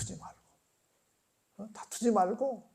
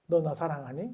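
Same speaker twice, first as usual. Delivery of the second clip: gentle question; 2 semitones lower, 3 dB quieter than usual. Retold or imitated. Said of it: "물으셨잖아요".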